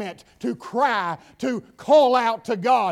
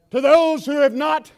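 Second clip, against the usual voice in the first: louder, higher, slow shout; preaching shout; 5 semitones higher, 7 dB louder, slower than usual. Acted. Preacher shouting John three sixteen to the church. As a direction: hammer the verse out.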